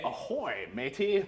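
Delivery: hint of a pirate greeting; lightly voiced pirate. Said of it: "It is Pirate Day".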